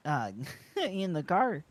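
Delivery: hammed-up Canadian rambling; exaggerated Canadian accent. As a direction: lay the Canadian accent on thick. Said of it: "forcing my natural accent".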